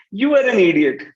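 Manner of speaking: loud, smiling sarcastic jab; smiling sarcasm. Shown as a demonstration. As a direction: tease them with a grin in the voice. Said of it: "we have a smile on our face".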